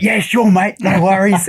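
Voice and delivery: a cheery Steve Irwin reply; imitating Steve. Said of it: "he's like".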